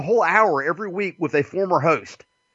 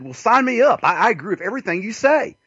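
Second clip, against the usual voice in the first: mock eager recruit, higher pitch; excited; 8 semitones higher, faster than usual. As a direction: blurt it out with retold enthusiasm. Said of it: "got so excited".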